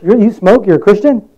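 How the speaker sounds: mild mock incredulity. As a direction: question it in mild disbelief. Acted challenge to a smoking Christian.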